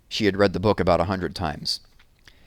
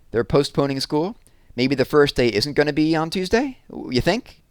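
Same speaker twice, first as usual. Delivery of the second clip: put-on hopeful girl; 6 semitones higher than usual. Jessie hopes school is delayed.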